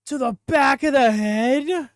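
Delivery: high loud incredulous question; shocked disbelief. Real, not acted. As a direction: cry it out in disbelief. Shocked by a move.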